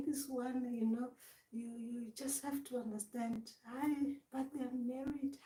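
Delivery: soft, hushed understanding act; hushed mock-sympathetic voice; voice gone down. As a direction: speak softly, as if being very understanding. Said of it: "even your voice goes down".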